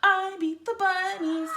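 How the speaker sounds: loud, slow, triumphant whoop. A narrator's reading. McGreely celebrating his win, loud slow whoop. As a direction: whoop it in victory. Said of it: "he whooped".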